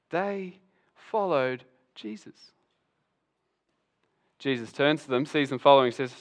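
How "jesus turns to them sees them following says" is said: normal talking voice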